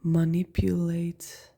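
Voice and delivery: Manipulate with stress on nip, muh-NIP-yoo-late; Manipulate said slowly. Shown as a demonstration. Comparing the two words for viewers, slow careful Manipulate. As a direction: draw out Manipulate slowly, each syllable clear. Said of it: "we put the emphasis on a different part of the word".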